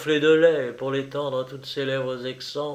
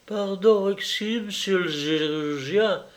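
timid; 6 semitones higher than usual. Acted. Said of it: "très intimidée".

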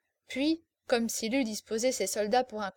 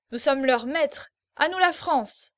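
growing excitement; 3 semitones higher, 5 dB louder than usual. Acted. Drunk officer boasting to the table, rising excitement. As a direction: work yourself up to a triumphant cry. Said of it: "Et il s'animait".

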